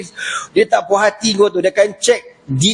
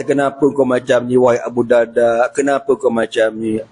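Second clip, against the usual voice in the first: tearful Umar; 5 semitones lower than usual. Acted. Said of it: "menangis tuan-tuan".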